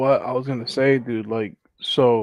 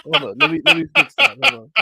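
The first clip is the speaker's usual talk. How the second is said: tiny pitched-up voice; high squeaky voice; 13 semitones higher, 4 dB louder than usual. Pretend. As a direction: talk like a squeaky cartoon. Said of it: "let me get my voice changer".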